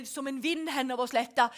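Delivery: ordinary talk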